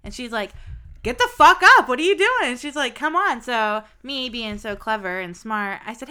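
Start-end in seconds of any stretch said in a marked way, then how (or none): 1.0-2.5 high, loud scolding as his mom; retold angry mother. Mom ordering son off the couch, angry yell. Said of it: "she was a very angry lady". 3.0-3.4 raised, impatient mother's voice; retold angry mother. Mom hurrying her son out, angry. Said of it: "she was a very angry lady".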